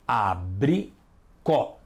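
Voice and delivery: "Abricó" said slowly, a-bri-CÓ, last syllable stressed; separado em sílabas. Shown as a demonstration. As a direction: stretch out "Abricó" and stress the final CÓ. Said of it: "marcar em negrito a sílaba forte". ("Abricó" devagar, sílaba forte no CÓ)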